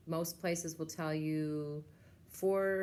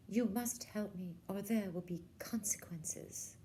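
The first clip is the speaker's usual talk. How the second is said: slow, hushed menacing threat; threatening princess; 4 semitones higher than usual. Acted.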